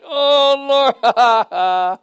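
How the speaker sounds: high wailed "Oh", breaking into laughter; mock wail that tips into a laugh; acted cry into laughter. Preacher picturing weepers who shall laugh, hammed-up wail and laugh. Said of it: "I'm trying to picture that".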